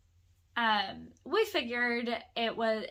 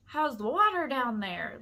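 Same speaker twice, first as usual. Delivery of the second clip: mildly raised calling voice; retold yell down; 2 semitones higher, 4 dB louder than usual. Man on a balcony calls down to women by the pool, mock yell. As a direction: imitate a man calling down, lightly. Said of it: "Like, yelling down from".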